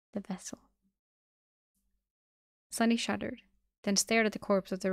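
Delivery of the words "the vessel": softly added, hushed; much quieter. A narrator's reading. She finishes explaining the soul machine, much quieter. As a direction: drop to a much softer voice. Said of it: "in a much quieter voice".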